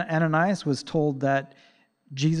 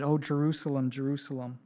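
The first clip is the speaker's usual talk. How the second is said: softer, grieving lament over the city; compassionate; 5 dB quieter than usual. Retold or imitated. Jesus lamenting over Jerusalem, soft and compassionate. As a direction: mourn the name with tender sorrow. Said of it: "He said it with compassion".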